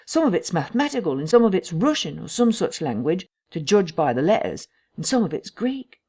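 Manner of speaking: lightly acted scholar listing findings, lifted pitch; lightly voiced Cuss, explaining. Narrator voices Mister Cuss in dialogue.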